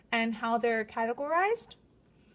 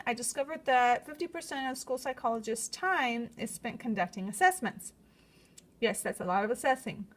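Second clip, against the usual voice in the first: lisping through new braces. Real, not acted. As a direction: speak with a slight braces lisp. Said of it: "my lisp".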